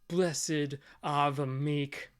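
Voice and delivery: slow, deliberate scornful quote; mocking quote. Angry merchant quoting the man who wrecked his stall, mocking. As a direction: draw out the pious words with contempt.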